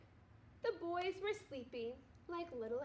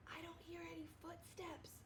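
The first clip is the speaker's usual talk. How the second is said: much softer hushed voice; whisper; 3 semitones higher, 14 dB quieter than usual. A narrator's reading. Arthur listening for aliens, whispering. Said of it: "whispered Arthur".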